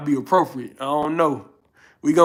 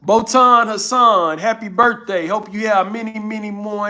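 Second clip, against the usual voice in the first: birthday shout-out; 4 semitones higher, 3 dB louder than usual. Real, not acted. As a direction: stretch the name out like a festive announcement.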